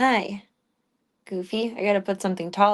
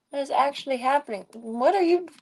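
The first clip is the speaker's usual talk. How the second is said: pitched up, coaxing the cat; high pet voice; 5 semitones higher than usual. Real, not acted. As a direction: rise high, playful and teasing. Cooing at cat.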